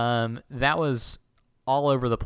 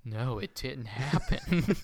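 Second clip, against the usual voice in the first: mind-tricked crowd; 4 dB quieter, slower than usual. Retold or imitated. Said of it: "grab their heads like".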